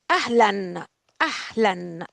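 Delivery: أهلًا with the final -an clearly sounded; tanween on أهلًا. Shown as a demonstration. Teacher modelling أهلًا for students, ending on a clear "an". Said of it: "أهلًا here has the tanween on".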